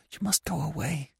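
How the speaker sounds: soft, high, hushed; whispered urging. A narrator's reading. Anna to Gurov as someone comes, hushed urging. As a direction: hush him away urgently. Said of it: "went on in a whisper".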